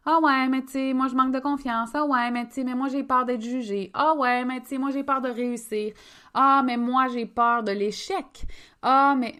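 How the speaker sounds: high, repetitive mock complaint; mock excuse-making. Women choosing to stay stuck in fears, mock complaining. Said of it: "On a le choix de faire comme".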